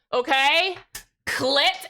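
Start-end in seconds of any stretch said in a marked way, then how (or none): 1.3-1.9 "Clit" said alone and punched with a rising tune; emphasis on clit. Shown as a demonstration. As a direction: stress the single word "Clit", cheeky. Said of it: "emphasis on clit".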